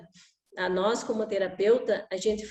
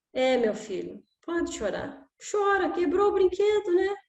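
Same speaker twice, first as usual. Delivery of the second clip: permissive father; 7 semitones higher than usual. Retold or imitated. Permissive father voiced, letting child cry.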